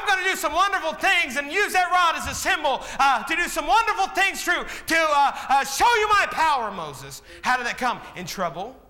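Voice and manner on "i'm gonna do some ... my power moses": voicing God. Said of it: "God speaking to Moses".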